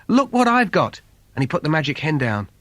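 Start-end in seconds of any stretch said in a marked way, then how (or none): 0.1-1.0 excited call. Acted. Jack shows mother the hen.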